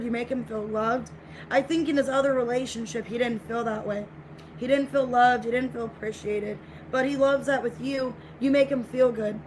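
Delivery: normal talking voice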